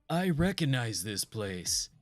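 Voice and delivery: slow, put-on hero voice; a resolved young prince, drawn out. Gamer reading the prince's dialogue in a slow hero voice. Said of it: "So the prince says".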